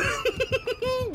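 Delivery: very high-pitched giggling laugh; high giggle. Real, not acted. Laughs at the surprise outcome.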